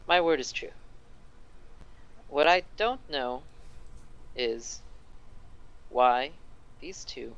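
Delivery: slow, sighing mayor lamenting his troubles; a lightly voiced tired official, dragging the words; mayor musing aloud by the fireplace, slow and put-upon; weary mayor. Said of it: "the mayor kinda sighs".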